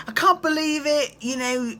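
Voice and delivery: high, whiny put-on accent, laughing at it; mocking James Kennedy. Host mocks a bitter cast member not invited, high whiny put-on accent. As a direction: sulk it out in a sky-high mocking whine. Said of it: "That accent is killing me".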